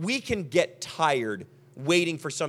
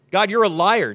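mock-angry charge, punched louder; hammed-up indignant accusation; acted angry accusation; 6 dB louder than usual. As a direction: accuse God, mildly heated. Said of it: "You're just angry".

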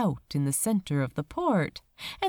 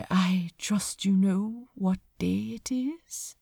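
nonchalant. Acted. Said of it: "the angel asked nonchalantly".

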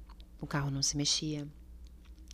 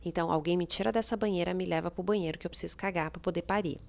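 urgent pleading, louder; retold desperate plea; 3 dB louder than usual. Mother in labour begging staff to leave the tub, urgent louder plea. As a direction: beg them to get you out, insistent. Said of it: "teve uma hora que eu falei assim".

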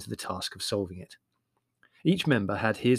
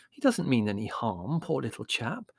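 pacifying. Acted. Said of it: "said Mother pacifically".

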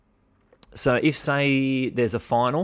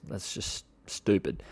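muttered aside; 6 dB quieter, slower than usual. Real, not acted.

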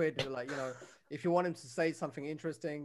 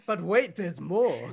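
infomercial pitch; 4 semitones higher, 10 dB louder, much slower than usual. Pretend. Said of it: "mock infomercial catchphrase".

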